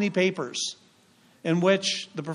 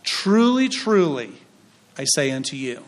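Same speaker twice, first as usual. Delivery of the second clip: modern translation reading; 3 semitones lower than usual. Shown as a demonstration. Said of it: "it says it this way".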